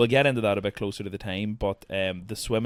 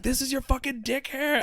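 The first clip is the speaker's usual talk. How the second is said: much higher, squeaky mock quote. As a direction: squeal it out like you're mocking him. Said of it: "he's like".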